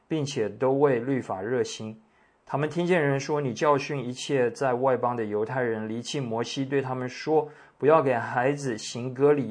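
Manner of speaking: clear, measured reading aloud to a congregation; scripture reading. A narrator's reading. Pastor reads today's passage to the congregation, scripture reading. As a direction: read the passage out with formal, lively phrasing.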